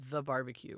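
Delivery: "the" set apart as a grand title; stress on THE. Real, not acted. Jokingly naming their own event, stress on "the". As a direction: lean on "the" like it is capitalized. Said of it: "with a capital T".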